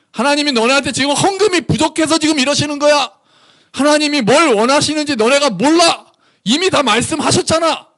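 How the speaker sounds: high-pitched, exasperated scolding; angry rebuke. Acted. Fed-up prophet Micah scolding Israel, angry. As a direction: explode at them for not getting it. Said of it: "이제 열받아서".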